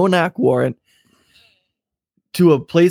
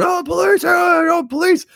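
imitated police yelling. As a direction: imitate cops suddenly yelling, pitched way up. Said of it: "they just start yelling".

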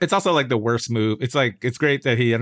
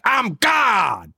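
shouted high, booming I'm God; mock preacher proclaiming; 7 semitones higher than usual. Imitating a TV preacher yelling at callers. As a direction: roar it like a self-declared deity. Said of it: "he's like".

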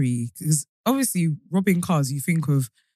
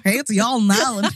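imitating a bad Irish accent; mock Irish accent. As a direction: mimic a friend's botched Irish greeting. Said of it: "it's also the accent as well".

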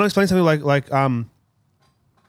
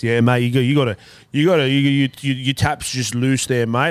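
lightly put-on Aussie tradie accent; 6 semitones lower than usual. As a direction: lay on the mate-talk like a tradie. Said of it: "I've caught myself saying fair dinkum".

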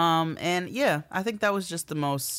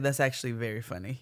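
amused; 3 semitones lower, faster than usual. Retold or imitated. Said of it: "I was like".

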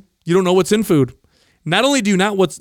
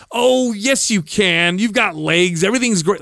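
mock upbeat comforting, jumping higher at the start; false reassurance; 3 semitones higher, slower than usual. Telling a friend who lost their legs, falsely reassuring. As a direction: imitate an empty pep talk.

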